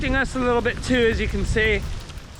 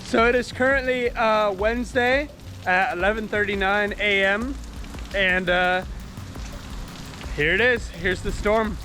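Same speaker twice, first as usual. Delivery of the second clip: raised voice over a storm; shouting over wind; 3 semitones higher than usual. Real, not acted. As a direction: call out over wind and rain. Filming outside during the hurricane.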